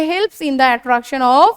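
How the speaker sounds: drawn-out words for students to copy down; slow dictation. Shown as a demonstration. Teacher dictating a definition to students, slow and drawn out. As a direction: spell it out slowly so they can write.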